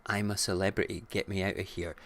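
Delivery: mock announcer. Show title announced.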